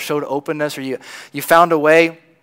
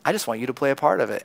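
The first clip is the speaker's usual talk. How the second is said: gentle Jesus. Retold or imitated. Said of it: "And Jesus goes".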